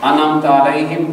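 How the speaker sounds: slow انعمت with Urdu-style vowels; untrained drawn-out انعمت علیہم; Pakistani mispronunciation. Shown as a demonstration. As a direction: read انعمت علیہم slowly, without tajweed. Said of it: "جو ہمارا تلفظ ہم پڑھتے ہیں".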